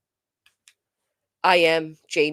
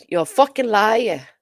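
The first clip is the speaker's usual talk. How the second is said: higher, louder mock accusation; quoting her signature line, a bit higher and louder; imitated catchphrase; 5 semitones higher, 5 dB louder than usual. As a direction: throw "fucking liar" at them the way she did. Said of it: "She had a lot of catchphrases".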